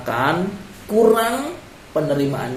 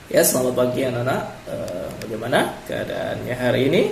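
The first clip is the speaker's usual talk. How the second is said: lower-pitched, easygoing classroom greeting; sample morning greeting intonation; 4 semitones lower, faster than usual. Shown as a demonstration. Teacher greets children in the morning, relaxed sample intonation. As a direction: demonstrate a relaxed good morning to pupils. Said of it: "misalnya seperti ini".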